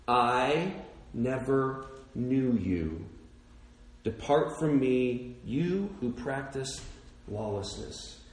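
slow, low, soft verdict; God's solemn rejection. Acted. Preacher voicing God rejecting the lawless, slow and low. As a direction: let it fall heavy and quiet.

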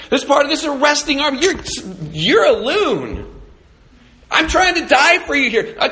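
high, loud, indignant protest; exasperated rant. Retold or imitated. Peter protesting to Jesus who heals the guard, exasperated loud rant. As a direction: rant at him like he's lost it.

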